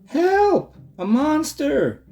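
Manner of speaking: high mock-scared cry, slow on monster; pretend fright. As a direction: fake being frightened for fun. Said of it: "pretending to be frightened".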